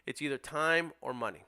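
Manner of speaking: steady, reasoning pitch; calm explanation to seller. Shown as a demonstration. Investor explaining time versus money to the sellers. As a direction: lay out the trade calmly. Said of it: "that's how you handle it".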